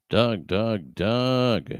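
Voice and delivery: loud, high call of the name, repeated. Pretend. Streamer playfully calls for missing friend Doug, loud and high. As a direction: call Doug as if across the room.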